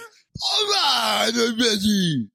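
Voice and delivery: very high, strained put-on voice; Adam Sandler. Co-host showing the actor's annoying voice, high and strained. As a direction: push it high like a crying yell. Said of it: "that's the other sound of voice he does".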